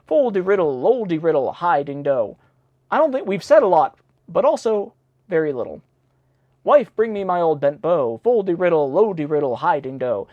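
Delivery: sing-song rhyme read aloud; bouncy chanting of the verse; nursery rhyme reading. Acted.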